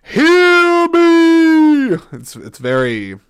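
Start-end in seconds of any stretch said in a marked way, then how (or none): 0.0-2.0 high, loud, booming mock Morpheus cry; Morpheus speech. Podcaster mimicking Morpheus addressing the people of Zion, hammed-up shout. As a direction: ham up a rallying cry to the crowd. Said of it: "he's just like".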